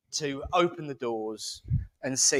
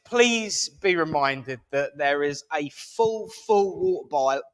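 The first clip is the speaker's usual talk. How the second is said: put-on slipping into posh accent. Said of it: "oh God, I'm doing it".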